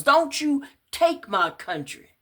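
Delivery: high, loud frantic cry; desperate scream. Acted. Woman screaming at police through the car window. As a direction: shriek it while banging the glass.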